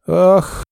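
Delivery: sharp high gasp of shock; a startled woman's gasp as she faints. Acted. Mother gasps and faints. (резкий высокий вздох ужаса)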